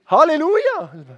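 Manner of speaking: high, loud exultant shout; loud praise. Real, not acted. Preacher to the congregation, shouting praise. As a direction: call it out to the whole church.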